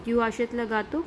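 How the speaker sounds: "Tu achètes le gâteau" lifting at the end on "gâteau"; questioning intonation. Shown as a demonstration. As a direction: turn "Tu achètes le gâteau" into a question with rising pitch on the last word. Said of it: "So, that is intonation".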